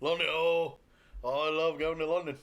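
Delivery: exaggerated mock-London accent; bad English accent. Joking about going to London, fake English accent. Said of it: "we're terrible at the accent".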